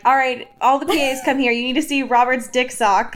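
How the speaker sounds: loud, hurried radio call to the crew; frantic stressed assistant. Retold or imitated. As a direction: bark orders over a set walkie. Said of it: "on a fucking radio being like".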